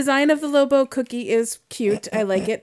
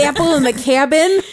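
put-on raised Rochester accent on Apple and cabin; 4 semitones higher, 4 dB louder than usual. Friends playing with cabin words, Rochester accent. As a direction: play up upstate Rochester vowels in "Apple" and "cabin". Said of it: "that's a Rochester accent".

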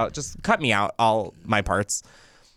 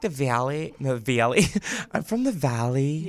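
put-on Valley Girl; Valley Girl accent; 2 semitones higher than usual. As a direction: play someone from the Valley, giggling. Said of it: "is Valley Girl".

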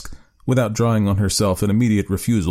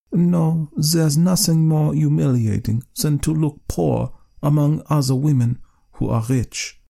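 vexed wife; 7 semitones higher than usual. Acted. Wife voiced in story.

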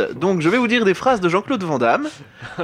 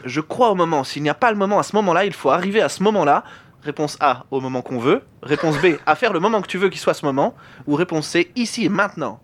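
put-on Van Damme accent. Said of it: "tu fais l'accent québé-, euh, américain".

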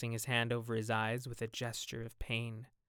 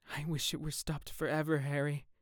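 quietly bitter, slightly raised pitch; a touch of anguish; 3 semitones higher, 3 dB quieter than usual. Acted. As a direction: answer with understated bitterness. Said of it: "he answered bitterly".

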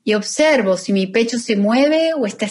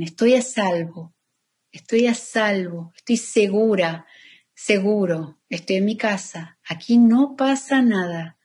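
calm affirmation. Shown as a demonstration. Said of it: "lo puede decir en voz alta".

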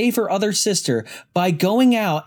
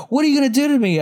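higher-pitched mock victim question; horror-movie victim; 8 semitones higher, 3 dB louder, much faster than usual. Victim asks the attacker in a horror movie, mock pleading. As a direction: imitate a naive victim, pitched up. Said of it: "somebody's like".

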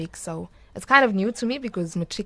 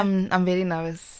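leaning into the mic. Real, not acted. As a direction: close to the microphone. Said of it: "Just come closer to the mic".

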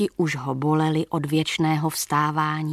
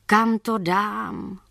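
ghostly voice; 4 semitones higher, much slower than usual. Acted.

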